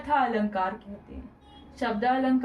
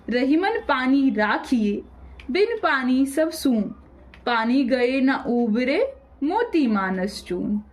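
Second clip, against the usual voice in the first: slow, measured poem recitation; recited couplet. Acted. Teacher to students, reciting a doha slowly.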